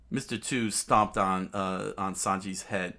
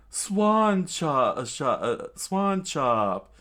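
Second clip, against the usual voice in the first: loud, raised battle cry; hammed-up fighter's yell; screamed attack call; 7 semitones higher, 5 dB louder, much slower than usual. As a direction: shout the move name dramatically. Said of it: "Mister Two screamed out".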